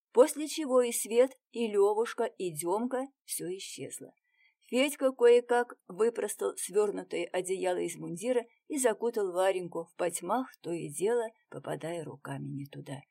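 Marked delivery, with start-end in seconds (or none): none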